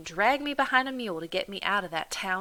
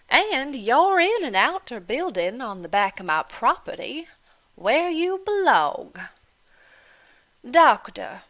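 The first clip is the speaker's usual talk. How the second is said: mocking Irish landlady; 3 semitones higher, 7 dB louder than usual. Landlady goading Delphine about her planter father, loud and mocking. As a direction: needle her with each question.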